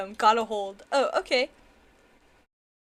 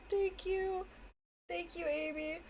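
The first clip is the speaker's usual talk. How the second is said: quiet; 4 semitones higher, 11 dB quieter than usual. Real, not acted. Thanks fading to quiet.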